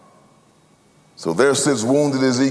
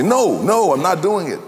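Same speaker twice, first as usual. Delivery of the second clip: acted refusal; 3 semitones higher than usual. Acting out father refusing call.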